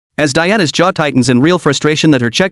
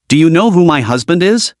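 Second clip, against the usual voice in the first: put-on drunk, entitled demand; slurred and indignant; 2 semitones higher than usual. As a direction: slur it like a tipsy snob. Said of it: "broadcasting Diana's slurred, indignant voice".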